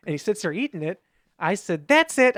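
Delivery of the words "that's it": high, loud retold snap; fed-up outburst. To family eating early, fed-up outburst. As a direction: burst out, pitched up and loud.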